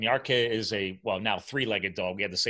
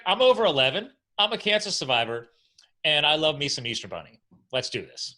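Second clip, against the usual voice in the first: much higher and louder, a proud pumped-up dog; voicing the dog; 5 semitones higher, 4 dB louder than usual. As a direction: play the dog bragging it's ready to go. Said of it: "He's like".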